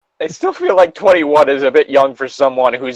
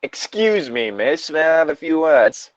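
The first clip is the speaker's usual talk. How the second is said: higher put-on English gentleman voice; bad English accent; 4 semitones higher than usual. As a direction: politely butt in with a fake English accent. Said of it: "Why was that the voice I went with".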